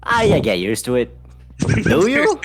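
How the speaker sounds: loud, high, bad Scottish accent. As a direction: ham up a terrible Scottish brogue. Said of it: "This is a terrible Scottish accent".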